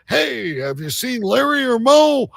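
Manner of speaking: high-pitched, playful mock street call; mock hearty call. Host testing his made-up rhyming slang, mock hearty. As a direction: pitch it up like hailing someone.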